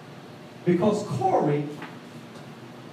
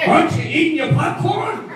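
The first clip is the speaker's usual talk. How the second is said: imitating stepdad; 7 semitones higher, 5 dB louder than usual. Voicing stepdad teasing.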